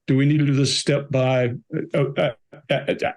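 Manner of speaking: breaking down into a mock stammer; imitated stammering. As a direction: mimic losing verbal fluency mid-question. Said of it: "he starts stammering and has to correct himself".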